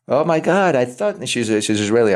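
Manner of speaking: put-on high, jokey Israeli accent; mock the script supervisor's Israeli accent; hammed-up Israeli accent; bad Israeli accent. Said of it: "I was my bad Israeli accent".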